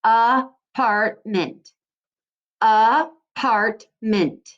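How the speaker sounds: Apartment stretched very slowly, syllable by syllable; slow syllable demo. Shown as a demonstration. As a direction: model Apartment slowly for children to echo. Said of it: "Say the word apartment".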